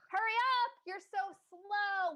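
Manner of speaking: high, loud nagging yell, slow on the second line; impatient yell. Acted. Mother yelling at her slow daughter, loud impatient shout. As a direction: hurry her along sharply.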